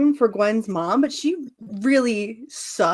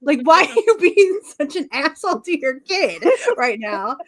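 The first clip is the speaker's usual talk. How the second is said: louder, a touch higher indignant rant; mock angry rant; 4 semitones higher, 5 dB louder than usual. Speaker retelling her outrage at Gwen's mom, a loud mock rant. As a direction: tell her off like a fed-up friend.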